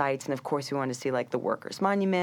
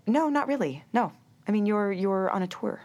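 much higher, light and dismissive; guide brushing off; 5 semitones higher than usual. Retold or imitated. Guide answering tourists, high light dismissal. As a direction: shrug it off, of course not. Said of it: "And she said".

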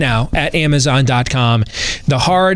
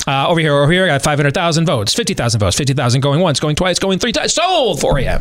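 auctioneer. Pretend. Mock auction of votes.

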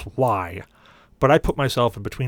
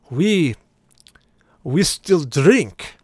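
slow, louder, higher pronouncement; put-on father-in-law voice, drawn out; bride's father's voice; 5 semitones higher, 5 dB louder, much slower than usual. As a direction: announce it slowly, word by word.

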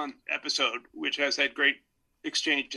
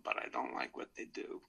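whispered end of quote; 13 dB quieter than usual. Retold or imitated. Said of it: "talking about the killers".

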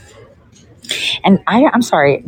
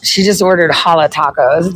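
ordinary talk, nothing marked

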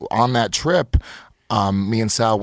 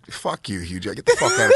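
mock heckle; 2 semitones lower than usual. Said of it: "And I'm literally going like".

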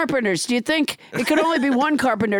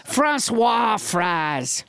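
very slow, lower mock French; French Trump; 4 semitones lower, much slower than usual. French Trump renames French fries, slow lowered French accent. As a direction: savor each word in hammy French. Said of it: "your extremely realistic accent".

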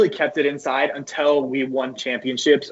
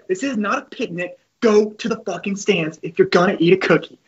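higher-pitched retold scolding; a touch of mock coach anger; Coach Garrido; 6 semitones higher than usual. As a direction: lightly imitate a stern coach. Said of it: "He said".

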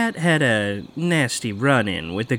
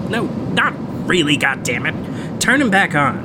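laughing it off; 3 semitones higher than usual. Acted. Teasing after fake order.

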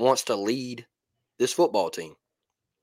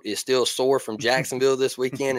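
scratchy throat. Real, not acted. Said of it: "it's still scratchy".

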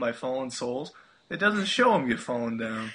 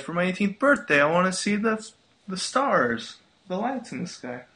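Disney princess voice; 5 semitones higher than usual. Retold or imitated. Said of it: "you have got a really good Disney princess voice".

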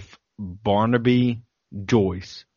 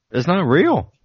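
bad Australian accent; 6 semitones higher, 5 dB louder than usual. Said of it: "the worst accent I've ever done".

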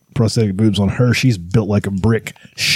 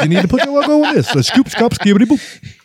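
put-on high excited Jewish accent sales pitch; 7 semitones higher than usual. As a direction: push the merch in a Jewish accent. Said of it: "Is Jackie Mason hawking Kiss stuff now?".

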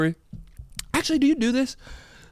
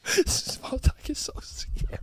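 whimpered mock sob; fake-cry the words out; 9 semitones higher, 5 dB quieter, slower than usual. Fake crying in role-play.

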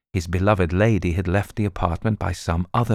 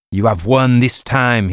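loud, higher bitter concession; through gritted teeth; 4 semitones higher, 6 dB louder than usual. Acted. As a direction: grit it out in defeat. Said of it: "said between his teeth".

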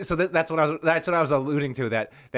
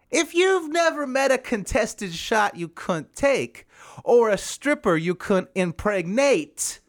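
lightly voiced comedian punchlines, higher and slow on the setups; Jeff Foxworthy bit; 4 semitones higher than usual. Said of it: "This is my impressions".

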